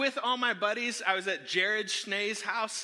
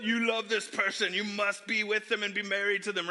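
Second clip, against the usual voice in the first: monotone mock alert voice; wacky spider sense. Mocking love as a Spider-Man sense, droning alert. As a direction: intone it like an inner alarm. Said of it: "some wacky spider sense".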